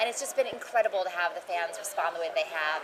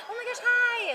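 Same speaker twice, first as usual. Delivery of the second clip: high, laughing delighted hi; squealing fan; slower than usual. Retold or imitated. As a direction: gush like an excited fan.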